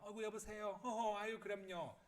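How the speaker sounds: high, gushing telephone politeness; suddenly sweet. Retold or imitated. Mom answering phone after anger, suddenly sweet. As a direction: turn sugary for the caller. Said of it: "상냥하게 변합니다".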